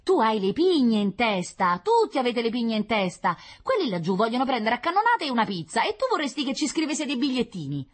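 loud, high scolding; quarrelling child. Acted. Child mocking sibling's signals to Martians, loud and scornful. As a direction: hurl it back insultingly.

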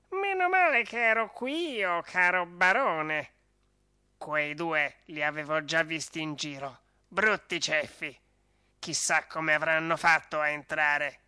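a lightly voiced little dog, gently reassuring; calm the baron like a kind small dog. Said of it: "Gli parlò con voce rassicurante".

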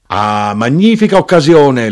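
high, loud cry of delight; shouted exclamation. A narrator's reading. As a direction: cry out loudly as the knife grinder. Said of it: "l'arrotino gridò".

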